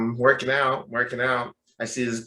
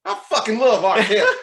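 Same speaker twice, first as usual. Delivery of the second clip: high, loud Southern gushing; Southern accent; 8 semitones higher, 7 dB louder than usual. Retold or imitated. Gym stranger declares another favorite, loud Southern accent. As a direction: gush in an imitated Southern accent. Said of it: "with Southern accent".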